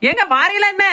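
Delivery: high-pitched wifely summons; calling to someone to come; impatient calling out. Acted. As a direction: call the husband over, pitched right up. Wife calls husband over.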